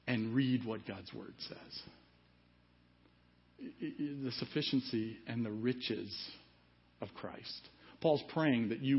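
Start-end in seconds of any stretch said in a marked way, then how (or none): 0.1-7.7 near whisper. Real, not acted.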